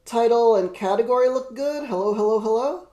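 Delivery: manic, over-the-top villain voice; hammed-up unhinged villain greeting; crazy voice. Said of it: "That's my crazy voice".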